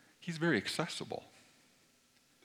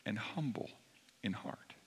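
whispered, softer and lower, fading out; 4 semitones lower, 10 dB quieter than usual. Acted. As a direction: let it fade into a whisper. Repeating Jesus' words softly.

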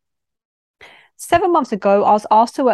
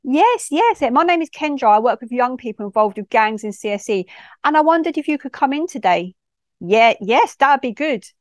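polite phone voice; 3 semitones higher than usual. Acted. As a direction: introduce yourself politely to a parent. Both sides of acted phone call.

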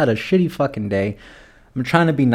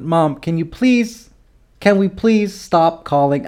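slow, higher-pitched begging; exasperated plea; 5 semitones higher, slower than usual. Acted. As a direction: plead with your mom, dragging it out. Pleading with mother to stop calling.

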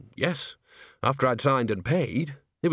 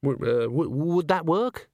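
suspicious; 6 semitones higher than usual. A narrator's reading. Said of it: "he said, suspiciously".

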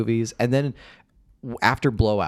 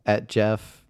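slow, drawn-out indignation; aggrieved, deliberate complaint; betrayed; slower than usual. Real, not acted. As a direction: stretch out the hurt for effect. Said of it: "Stuart is so mad at me".

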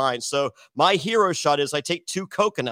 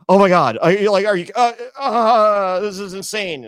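put-on excited teen; 7 semitones higher, 6 dB louder than usual. Teen thrilled to meet voice actress.

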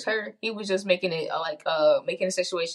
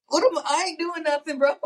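laughing; 7 semitones higher than usual. Real, not acted. Laughing at her own joke.

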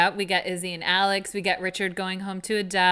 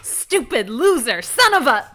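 half-laughing mock rant, rising; quoting an angry rant through laughter; mock angry outburst; 3 semitones higher, 6 dB louder, slower than usual. Podcaster imitating Meredith's angry scene, laughing. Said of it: "angry scene where she's like".

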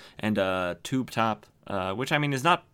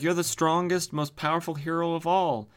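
retold hype; 7 semitones higher than usual. Retold sidekick hyping the hero.

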